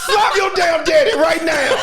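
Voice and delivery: high loud yell cracking with laughter; laughing shout. Real, not acted. Fan repeating the yell at Gohan, high shout breaking into laughter. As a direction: holler it again through laughs. Yelling again while laughing.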